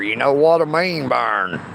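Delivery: mock bass voice kept going. Shown as a demonstration. Mock deep voice, teasing a chatter named Burn. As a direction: say it low and rumbling, held down in the chest. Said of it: "I might could talk like this".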